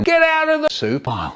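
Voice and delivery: high-pitched exasperated phone yell; mock shouting. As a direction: act out losing patience on the phone. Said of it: "don't have to shout at me".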